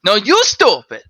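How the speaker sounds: high, slow, loud taunt; drawn-out jeer. Acted. Two department heads resuming their fight, slow jeering taunt. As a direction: stretch the final insult.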